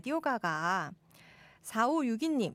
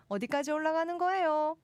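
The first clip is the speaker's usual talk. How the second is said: higher and climbing all through to 거예요; climbing Gyeongsang intonation; 7 semitones higher than usual. Shown as a demonstration. Host showing how dialect climbs, Gyeongsang accent. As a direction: keep the pitch rising to a high 거예요, Gyeongsang style. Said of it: "음정은 계속 올리시면 되고요".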